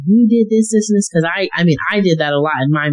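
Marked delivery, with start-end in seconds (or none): 0.0-1.1 higher-pitched imitation of blame; mock blaming. Wife imitating herself blaming her husband, higher-pitched. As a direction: rattle off mock accusations. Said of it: "blaming the other person".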